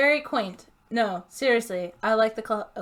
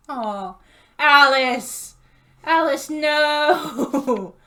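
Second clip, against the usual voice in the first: slow, stretched, loud groan of disbelief; drawn-out dismay; 4 semitones higher, 9 dB louder, much slower than usual. Real, not acted. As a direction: stretch out the cry at Alice. Dismayed cry at game character.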